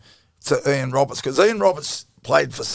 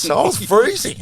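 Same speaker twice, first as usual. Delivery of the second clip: laughing; 10 semitones higher than usual. Real, not acted. Laughing while retelling freezing.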